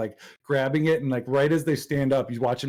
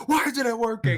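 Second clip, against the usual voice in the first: much higher, puzzled question; baffled Loki; 10 semitones higher than usual. Retold or imitated. Loki on trial finding his powers gone, high and baffled. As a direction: squeak it out high in disbelief. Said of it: "He's like".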